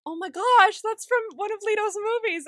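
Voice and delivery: a lightly voiced excited fan; excited fan gush. Bug gushing about Leto.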